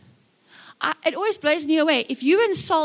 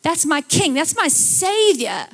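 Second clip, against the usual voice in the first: bold devotion; slower than usual. Shown as a demonstration. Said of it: "be a little bit more like".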